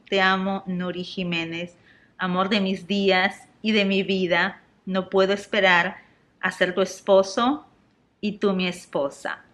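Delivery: slow and dreamy, as if moved; slow tender reading. Real, not acted. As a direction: savour each word of the proposal. Reading fiancé's romantic post aloud.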